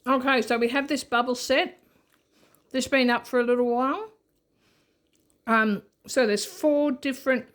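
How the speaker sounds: talking around a bite of biscuit; chewing while explaining; mouth full. Real, not acted. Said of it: "So I'll be talking with my mouth full".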